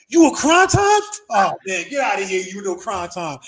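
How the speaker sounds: put-on squeaky boxer ribbing an old wrestler; high Tyson voice. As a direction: Tyson greeting him with a high, loud tease. Mike disbelieving him.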